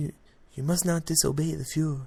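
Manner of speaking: mild, soft-spoken evil cartoon villain voice. Picturing Harry Reid as a cartoon Nazi officer: Harry Reid as cartoon Nazi. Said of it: "I could kinda see Harry Reid".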